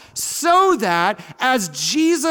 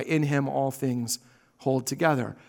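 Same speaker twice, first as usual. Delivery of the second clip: softer and lower, leaning on "in"; quiet reread, stress on in; 8 semitones lower, 7 dB quieter than usual. Shown as a demonstration. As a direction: drop the voice and press the word "in". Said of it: "That's what it means by".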